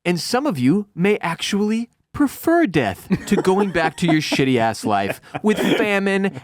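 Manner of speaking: high, rousing mock oration; pregame speech. Co-host mimics her grim pregame speech to her people, mock-rousing oratory. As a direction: declaim it like a grand speech, hammed up. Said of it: "she's giving him the pregame speech".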